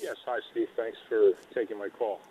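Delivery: barely audible caller, far from the phone; quiet, distant phone line; faint and distant. Real, not acted. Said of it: "you sound very faint".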